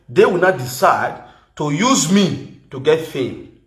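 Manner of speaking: They will not decide said slowly, each word weighted; slow emphatic. Shown as a demonstration. Laying down the law to online women, slow and emphatic. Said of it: "Now get that clear".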